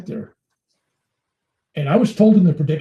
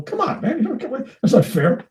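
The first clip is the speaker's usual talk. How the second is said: much higher, laughing through the complaint; laughing protest; 9 semitones higher than usual. Retold or imitated. Bill pleading with the guru, laughing and high. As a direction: whine it's not fair while laughing.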